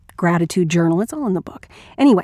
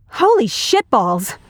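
slow, mildly stunned oath; stunned exclamation; 3 semitones higher, slower than usual. Acted. Man just kissed by surprise, slow stunned reaction. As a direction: let the shock sink in slowly.

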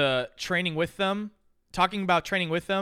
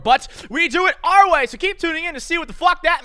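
higher, louder show tagline; hyped slogan; 11 semitones higher, 7 dB louder than usual. Pretend. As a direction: punch it out as a big promise.

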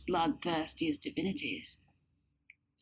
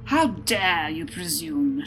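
shouting; 2 semitones lower, 3 dB louder, slower than usual. Acted. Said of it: "shouted the Winter Lord".

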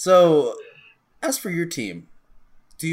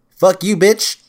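gloating shout; 7 semitones higher, 10 dB louder, slower than usual. Real, not acted. Gloating win over co-host.

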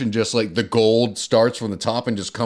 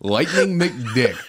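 laughing; much slower than usual. Real, not acted. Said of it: "that was really good".

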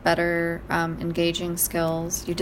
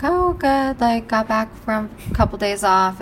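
cashier voice; 4 semitones higher, 3 dB louder than usual. Retold or imitated. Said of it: "he kinda was like".

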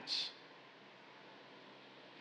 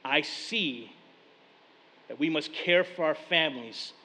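a hint of a thick African accent; light African accent; 3 semitones lower than usual. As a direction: African pastor teaching the young preacher, light accent. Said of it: "thick African accent".

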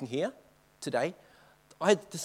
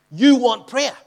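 surprised question; 8 semitones higher, 12 dB louder, slower than usual. Retold or imitated. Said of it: "and he goes".

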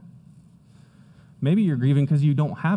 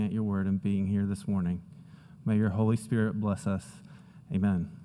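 closing prayer; 3 semitones lower than usual. Acted. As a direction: pray humbly over the congregation. Pastor leads prayer before sermon.

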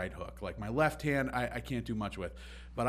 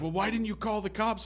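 manager questioning; 10 semitones higher than usual. Retold or imitated. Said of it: "he was like".

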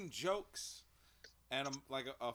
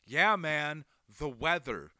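mock flat reply; 3 semitones higher, 10 dB louder, slower than usual. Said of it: "I turned to him like".

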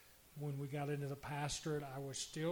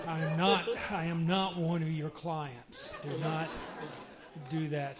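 loud retold scolding; 7 dB louder than usual. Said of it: "she said to me".

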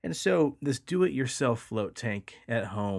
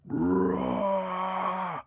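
guttural roar; 9 semitones higher than usual. Retold or imitated. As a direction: let out a blood-curdling roar. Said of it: "blood-curdling, like, guttural".

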